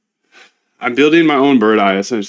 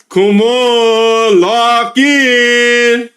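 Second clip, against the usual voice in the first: high pleading; 10 semitones higher, 3 dB louder, much slower than usual. Real, not acted. Pleading with the AI to focus.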